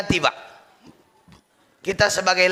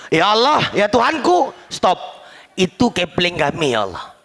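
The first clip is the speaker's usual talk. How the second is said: complaining crowd; 3 dB louder than usual. Acted. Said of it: "masyarakat komplain sama Allah".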